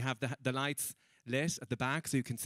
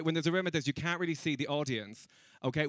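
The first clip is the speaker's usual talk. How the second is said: usual speaking voice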